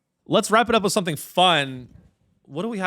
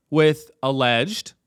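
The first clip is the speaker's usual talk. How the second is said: slow, deliberate weight on "alleged"; stress on alleged; slower than usual. Real, not acted. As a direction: draw out "alleged" so it stands apart. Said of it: "emphasize the word alleged".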